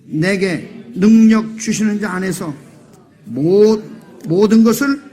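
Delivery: slow, deliberate scripture reading with the congregation; reading scripture aloud. Shown as a demonstration. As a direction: lead the verse reading slowly. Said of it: "이거 다 같이 읽겠습니다". (회중과 함께 천천히 성경 봉독)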